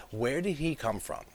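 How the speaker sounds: laughing through the repeated question. Real, not acted. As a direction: chuckle while asking.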